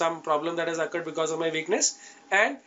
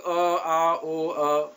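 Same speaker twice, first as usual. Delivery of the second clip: mock stammering; 3 semitones lower, slower than usual. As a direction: fake flustered stammer. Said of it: "Then you'll be like".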